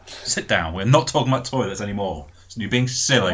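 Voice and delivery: quieting a classroom. Pretend. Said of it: "put your teacher voice on".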